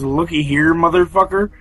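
a hint of her yelling at him; mild mock scream. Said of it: "she looks at me and screams".

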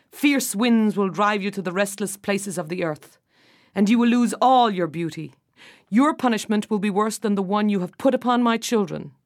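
stern booming doom; furious king cursing the witch. Acted. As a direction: pronounce the curse with force.

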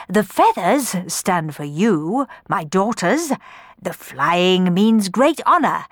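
grand, swelling storyteller voice; pompous father. Acted. Don Magnifico telling daughters his dream, pompous. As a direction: boast about the dream.

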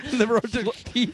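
high, slow, mouth held open; Dave Turpin impression. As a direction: say it with huge teeth in the way. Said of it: "new Dave Turn impression".

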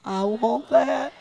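slow, drawn-out I want that; slow longing demo. Shown as a demonstration. Preacher leading the congregation to say it longingly. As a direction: lead the church in slow longing. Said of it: "Say it with me".

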